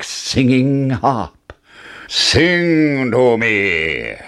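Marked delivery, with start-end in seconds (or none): 2.1-4.1 slow, drawn-out giant demand; lightly roared giant order; giant roaring. Acted. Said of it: "roared the giant".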